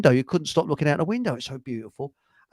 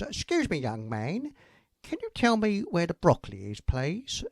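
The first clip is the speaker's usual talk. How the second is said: a hint of a polite lady customer, pitched up; woman shopper; 5 dB quieter than usual. Joke teller voicing a woman asking the shop boy, mock polite lady. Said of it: "a woman comes over to him and says".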